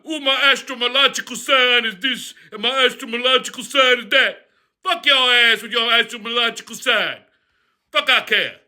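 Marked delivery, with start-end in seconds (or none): 0.0-4.5 prissy, cooing mock woman. The speaker mocking women about star signs, prissy coo. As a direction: coo it like a vain date. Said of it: "Talk about".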